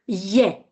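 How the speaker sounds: je with an English Y sound at the start; Slovak je. Shown as a demonstration. Teacher checking a line from the reading, Slovak je. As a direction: say je as "yeh". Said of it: "as if you had a Y".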